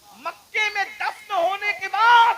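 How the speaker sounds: high, slow, loud wail; preaching climax. Real, not acted. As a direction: stretch each word in a loud high wail. (اونچی کھنچی ہوئی پکار)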